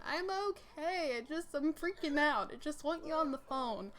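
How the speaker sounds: imitating a blubbering mess trying to explain; mock wail, high at first then easing; retold blubbering. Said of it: "I am just this blubbering mess".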